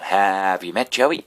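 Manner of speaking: slow mock introduction, stretch the word Have; retold pickup line. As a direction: HAVE drawn out, rising at Joey. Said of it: "walking up to girls going".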